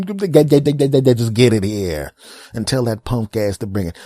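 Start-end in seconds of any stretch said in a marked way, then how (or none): 0.0-2.1 long drawn-out exasperated plea; slow groaning demand. Retold or imitated. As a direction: stretch it out, fed up.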